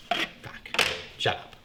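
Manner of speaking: under-breath whispered swear. Real, not acted. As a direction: hiss it to yourself. Embarrassed at mispronouncing.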